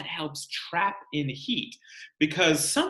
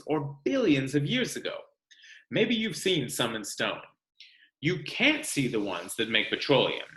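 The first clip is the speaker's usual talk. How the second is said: lively read-aloud, bigger on the lists; storybook reading for a classroom; reading to children. Acted. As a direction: read the book to the class with energy. Teacher reads book to class.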